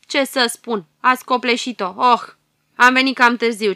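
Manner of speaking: loud, sneering witch voice; an old hag's loud mocking rant; spiteful witch. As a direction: taunt the fairies with scorn. Witch mocks the fairies' gifts.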